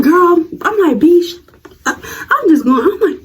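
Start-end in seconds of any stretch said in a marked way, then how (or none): 0.0-2.0 raised retort. Retold or imitated. Retold insult, raised voice.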